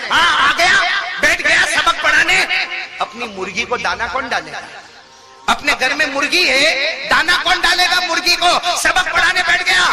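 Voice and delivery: high, loud mock-angry scolding; mother scolding. Old mother scolds her son before his students, loud and high. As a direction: tear into him for sitting teaching while chores wait.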